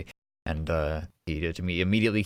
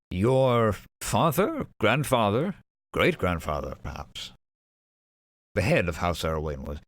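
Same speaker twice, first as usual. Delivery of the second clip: lightly voiced courtly dwarf searching memory; halting, formal gentleman recalling news; dwarf noble, pondering. Dwarf noble recalling where her father went, pondering.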